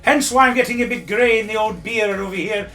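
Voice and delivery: blustering high character voice; Pat White Muffin character. Acted. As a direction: boom it like a pompous old windbag. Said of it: "is Pat White Muffin".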